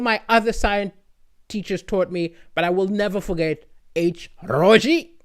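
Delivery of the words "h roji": put-on recalling the teacher's Sri Lankan accent. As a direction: imitate a Sri Lankan teacher reciting a formula. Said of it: "it was in his thick accent".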